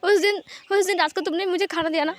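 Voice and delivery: tearful reproach. Acted. Lan Wangji reproaching Wing for staying away, tearful. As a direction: pour out hurt through acted tears. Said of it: "please मत रो लंजा".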